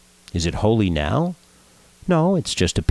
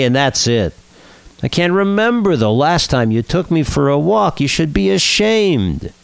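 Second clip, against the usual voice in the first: a kvetching dog, higher and louder, whining; whiny dog; 3 semitones higher, 3 dB louder than usual. Acted. Dog complains to his master in a whiny voice. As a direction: whine every complaint like a put-upon pet. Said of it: "the dog says in a whiny voice".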